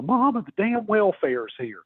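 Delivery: high, drawn-out imitation of a yelling kid; mock kid's yell. Kid on the porch warning his mama, mock yell. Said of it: "yells at his mama".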